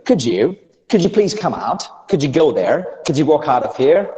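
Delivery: "could you" blended American-style into "cood-joo"; American connected-speech drill, d and y as j; American accent. Shown as a demonstration. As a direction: model American linking with rising questions.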